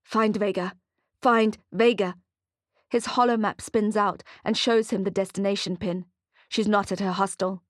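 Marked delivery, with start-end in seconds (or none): 0.0-2.1 robot voice. Acted. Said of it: "sounding like a robot".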